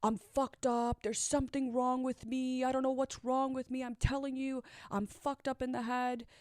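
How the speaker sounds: a hint of his breakdown; distraught. Boyfriend crying in the car, distraught pleading. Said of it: "He starts saying".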